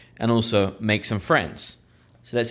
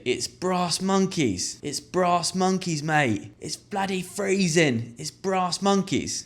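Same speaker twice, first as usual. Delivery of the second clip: higher, slow and drawn-out Londoner; cockney pub chat; 7 semitones higher, slower than usual. Shown as a demonstration. Londoner in the pub moaning about the cold, slow and high. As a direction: lean on the slang like a local.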